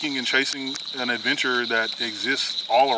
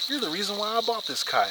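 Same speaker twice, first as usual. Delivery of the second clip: stranger's amazed words, voiced much higher; lightly voiced stranger, higher and amazed; awed stranger; 12 semitones higher than usual. Stranger's awed retold compliment.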